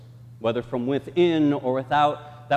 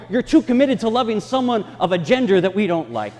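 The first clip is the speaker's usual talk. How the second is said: dismissive church; 7 semitones higher, 5 dB louder than usual. Retold or imitated. Church voicing dismissive excuses.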